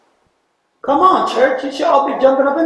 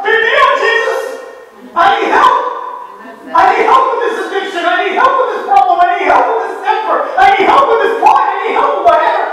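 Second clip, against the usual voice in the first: pleading cry; 5 semitones higher, faster than usual. Acted. Crying out to Jesus.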